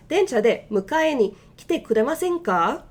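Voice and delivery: the Japanese request at natural speed; now say it at a natural pace. Shown as a demonstration. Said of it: "let's read that a little bit faster".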